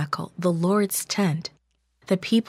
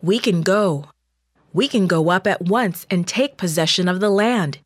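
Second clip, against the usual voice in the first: eager, louder rallying call; encouraging; 3 dB louder than usual. Acted. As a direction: urge the crowd forward with confidence. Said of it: "he encouraged".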